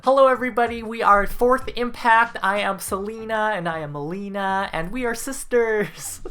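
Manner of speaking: high, loud mock Filipino accent. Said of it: "like, a Filipino accent".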